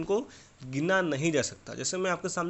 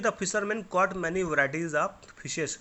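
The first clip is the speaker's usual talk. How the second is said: slow, word by word, like dictating; slow dictation reading; much slower than usual. Shown as a demonstration. Teacher reading the exercise sentence slowly to the pupils. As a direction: read it out slowly for the class to follow.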